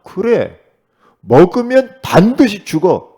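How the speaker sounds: loud, slow, stressing 반드시 hard; firm loud rebuke. Retold or imitated. Eve answering the serpent: loud, slow, stern rebuke. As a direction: slam the command down at the tempter. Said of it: "사탄에게 정확한 메시지를 했을 거예요".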